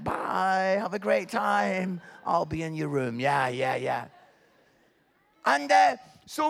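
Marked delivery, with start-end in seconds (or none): 0.0-3.2 unbothered farewell. Retold or imitated. Son waves sister off to Canada, unbothered. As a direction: imitate a brother who doesn't care. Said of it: "doesn't care. It's like".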